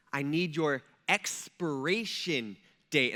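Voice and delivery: a clerk losing patience, slowly repeating herself; slow patient clerk. Retold or imitated. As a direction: spell it out patiently, like talking to a slow customer. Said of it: "and she's like".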